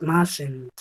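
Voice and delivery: "mustn't" with a short uh sound, masen, not oo. Shown as a demonstration. Teacher correcting a common Spanish error: "mustn't" with uh. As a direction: model "mustn't" with the English uh vowel. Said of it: "vamos a decir must".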